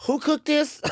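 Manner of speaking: high-pitched mock astonishment; amazed retold reaction. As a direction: imitate a relative's delighted disbelief, high. Retelling family's reaction to chicken.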